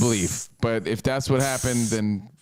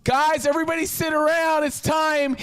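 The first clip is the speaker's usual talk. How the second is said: much higher cheery hostess voice; hammed-up chirpy mother; sing-song mom. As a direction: gather the kids like an eager mom. Voicing the mom gathering kids.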